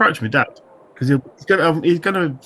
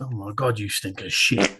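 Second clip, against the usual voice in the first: Robin Hood disgust; 8 semitones lower, 5 dB quieter, slower than usual. Retold or imitated. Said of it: "Robin Hood, where it's just".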